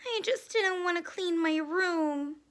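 high little confession; small high canary voice. A narrator's reading. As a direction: own up like a tiny sheepish bird. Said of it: "he said in a small voice".

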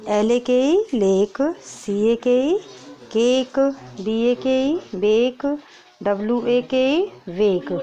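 teacher to kindergarten class, reading long a words slowly and clearly; long a sound drill. Shown as a demonstration. क्लास को लंबी ए ध्वनि सिखाते हुए. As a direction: spell the letters, then stretch लेक, केक, बेक, वेक with a long a. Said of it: "अब long sound के करो".

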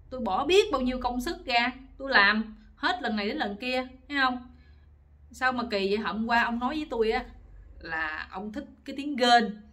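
acted-out aggrieved scolding; angry wife. Wife reproaches husband for her wasted effort, angry. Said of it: "bà giận tím mặt luôn".

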